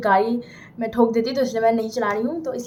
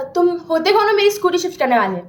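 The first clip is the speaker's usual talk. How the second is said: higher-pitched mock outrage; loud confrontation; 5 semitones higher, 4 dB louder than usual. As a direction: challenge him loudly, play-acted. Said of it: "मैं इतना ज़ोर से बोल रही हूँ".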